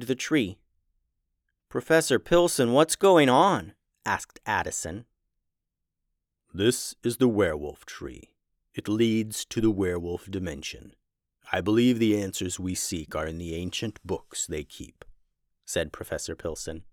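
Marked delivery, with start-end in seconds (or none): 1.7-3.7 put-on anxious kid voice. Kid calls out to teacher. 6.5-15.0 a hint of a low, calm teacher; steady, lower mentor voice; lightly voiced professor.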